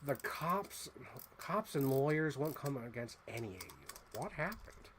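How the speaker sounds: Joker. Retold or imitated. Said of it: "I feel like Joker".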